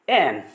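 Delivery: एन clipped short, not stretched; एन with a short e, no stretching; short vowel. Shown as a demonstration. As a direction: say एन crisp and short. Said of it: "इसमें लंबा नहीं करना".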